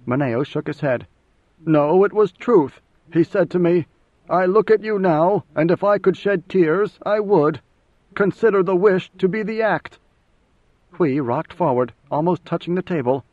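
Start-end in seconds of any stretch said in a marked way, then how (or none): 1.7-10.0 raised, fervent conviction; earnest insistence. A narrator's reading. Mineo insisting to Idaho the Emperor spoke truth, fervent. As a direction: swear it was truth, almost pleading.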